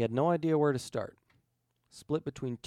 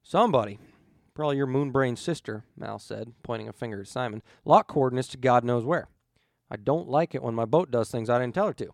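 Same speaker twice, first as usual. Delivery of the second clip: louder, clipped annoyance; irritated captain; 7 dB louder than usual. Acted. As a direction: bite the words out. Mal angry about locked ship.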